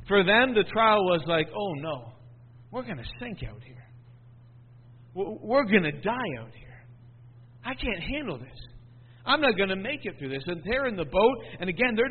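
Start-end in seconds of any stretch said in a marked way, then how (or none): 1.5-10.4 soft, hushed mock despair; despairing disciples. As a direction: voice the frightened disciples quietly. Disciples voiced despairing in storm.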